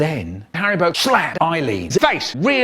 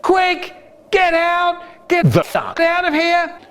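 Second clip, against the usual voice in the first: much higher, squeaky frantic voice; panicked George; 13 semitones higher than usual. Pretend. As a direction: yelp it like a terrified sidekick.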